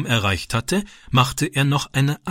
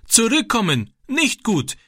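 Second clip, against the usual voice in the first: high, desperate begging; pleading in broken German; 10 semitones higher than usual. A narrator's reading. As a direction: plead with him to come back, voice raised high. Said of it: "flehte er und breitete bittend".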